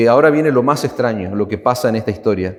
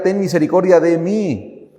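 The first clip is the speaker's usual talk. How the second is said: mild mock cry; 5 semitones higher than usual. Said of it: "Ella está gritando".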